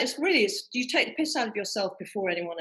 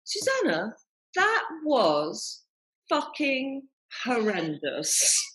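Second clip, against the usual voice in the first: deadpan verdict; 3 semitones higher, much slower than usual. Retold or imitated. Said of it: "I wet my pants".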